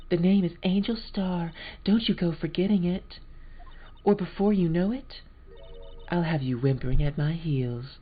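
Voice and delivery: high, haughty posh American lady. Acted. Angel Starr threatening the lawyer, haughty posh American. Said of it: "posh American".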